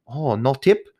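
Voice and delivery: lightly imitated Asian accent; a hint of an Asian accent. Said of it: "sorry for the Asian accent".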